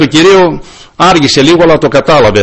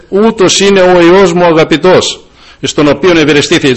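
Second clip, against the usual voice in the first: Father's voice proclaimed; 4 semitones higher than usual. Retold or imitated. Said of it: "Ο Πατέρας είπε".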